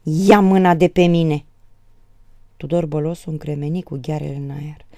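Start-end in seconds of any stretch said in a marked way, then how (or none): 0.0-1.4 loud, drawn-out angry yell. A narrator's reading. Daughter breaking from her father's grip, yelling. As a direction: yell it while tearing free. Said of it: "se smulse din mâinile tatălui și țipă".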